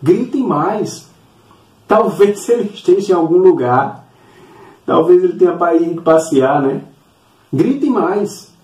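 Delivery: mock them as if egging them on; mocking taunt. Elijah taunts the prophets of Baal, mocking. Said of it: "ele ainda zomba e diz".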